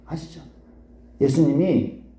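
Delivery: normal talking voice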